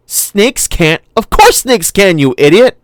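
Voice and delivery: put-on high, loud boy yelling at his sister; boy shouting at his sister in a boat. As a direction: yell it like an exasperated big brother. Tim argues back loudly.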